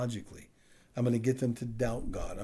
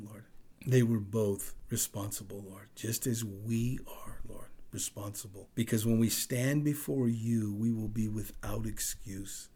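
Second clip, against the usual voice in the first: earnest prayer. Real, not acted. Preacher praying to the Lord for the congregation, earnest and subdued.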